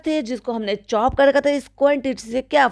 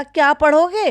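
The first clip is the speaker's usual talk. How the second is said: mocking madam; 5 semitones higher, 3 dB louder than usual. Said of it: "अभी एक second पहले कहा".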